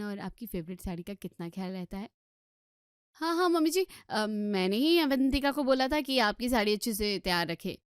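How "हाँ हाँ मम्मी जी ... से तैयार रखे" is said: daughter-in-law eagerly backing her sister-in-law; eager agreement. Acted. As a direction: jump in loudly to agree.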